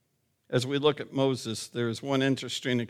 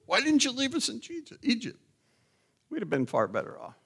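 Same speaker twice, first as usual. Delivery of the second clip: half-hearted panicked wail, dropping off at the end; mock screaming out; 9 semitones higher, 4 dB quieter, faster than usual. Preacher imagining himself among trapped Israelites, mock screaming out. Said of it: "we were probably there screaming out".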